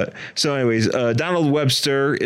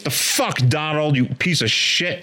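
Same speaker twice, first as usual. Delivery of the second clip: higher mock outraged wife; angry wife; 4 semitones higher than usual. Wife waking up, cursing Donald, higher mock anger. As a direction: snap at Donald in a raised mock voice. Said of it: "his wife wakes up and she's like".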